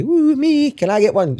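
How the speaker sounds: imitating brother asking eagerly; bright high mock plea; brother's eager ask. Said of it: "Alexander can't say".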